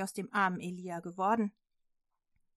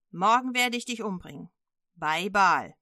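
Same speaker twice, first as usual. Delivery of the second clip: threat; 7 dB louder than usual. Acted. Drohung des Boten.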